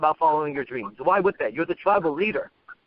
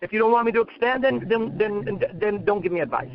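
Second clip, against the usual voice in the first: defiant retort; 4 semitones higher than usual. Retold or imitated. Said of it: "what I say to them".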